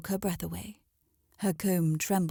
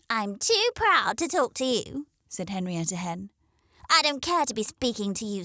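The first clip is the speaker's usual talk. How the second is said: haughty hen; 2 semitones higher than usual. Acted. Proud hen snubs crow.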